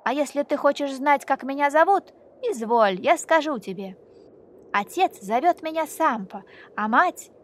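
громко и гордо называет себя; скажи громко и гордо; громкий смелый голос. Acted. Мальчик смело называет себя. (громкий гордый голос мальчика)

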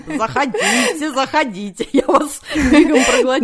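mustache twirling villain. Pretend. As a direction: lure them in like a cartoon baddie. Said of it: "Фурец, давай, жги".

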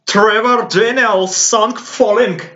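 A singer's name said in a slow American accent. Shown as a demonstration. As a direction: stretch the name out, American style. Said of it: "надо с американским акцентом надо теперь говорить".

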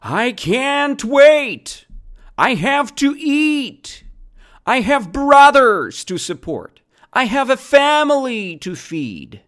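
high-pitched yell, drawn out word by word; heated yell. Acted. Kangaroo Zimba yells that he must feed his family, heated yell. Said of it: "Zimba yelled heatedly".

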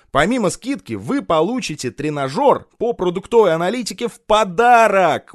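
eager teleshop host pitch; TV shopping host. Pretend. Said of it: "я стану похож на ведущего телемагазина".

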